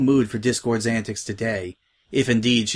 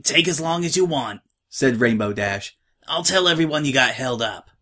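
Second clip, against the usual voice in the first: lightly raised, easygoing pony; tomboy pony voice; 3 semitones higher than usual. Acted. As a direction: reassure a friend casually. Rainbow Dash voiced in story.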